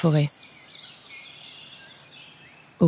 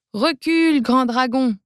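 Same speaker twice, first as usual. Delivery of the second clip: trembling cry; 5 semitones higher than usual. Acted. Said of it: "tout tremblant ... en criant".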